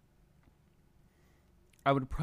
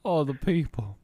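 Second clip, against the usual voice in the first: loud mock war trauma; 2 semitones higher, 5 dB louder than usual. Old soldier remembering war.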